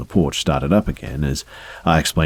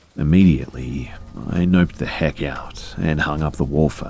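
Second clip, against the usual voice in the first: ordinary delivery, nothing marked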